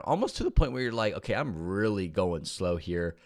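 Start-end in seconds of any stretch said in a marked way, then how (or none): 1.1-3.2 words stretched by a yawn. Real, not acted. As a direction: talk through a yawn. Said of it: "yawning while, while I'm talking".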